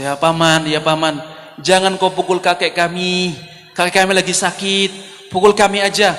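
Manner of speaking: put-on tearful child pleading. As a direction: imitate a small grandchild begging an uncle. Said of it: "Datang, nangis". (rengekan memelas seperti anak kecil)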